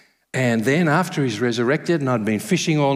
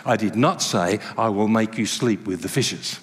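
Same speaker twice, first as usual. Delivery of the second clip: gentle teasing Jesus; 5 semitones lower than usual. Pretend. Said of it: "heard Jesus say".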